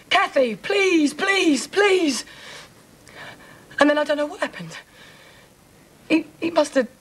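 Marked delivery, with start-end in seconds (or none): 0.1-2.2 slow, drawn-out begging; retold pleading. Woman retelling her attacker's pleas, pleading. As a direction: draw out each plea, imitating him begging.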